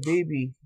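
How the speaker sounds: "baby" said in imitation of the character; imitating her pronunciation. Showing y'all how she said it, imitating her "baby". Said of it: "that's how she was saying it".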